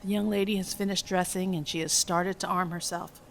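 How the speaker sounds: measured, even script reading; screenplay narration. A narrator's reading. Reads film script aloud.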